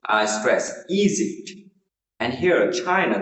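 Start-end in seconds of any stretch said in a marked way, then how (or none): 1.0-1.5 Egypt with the stress on "E"; stress on first syllable. Shown as a demonstration. Teacher modelling Egypt for learners, first-syllable stress. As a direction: lean on the opening vowel of Egypt. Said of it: "the first syllable is".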